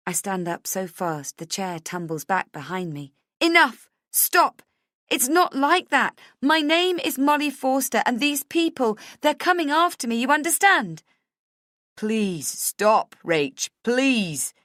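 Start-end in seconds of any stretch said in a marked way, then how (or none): 3.4-11.0 high, loud frantic shouting; outburst. A narrator's reading. Jumps up, cuts him off. 12.0-14.5 louder, strained begging; anguished plea. A narrator's reading. Husband begging her to stop.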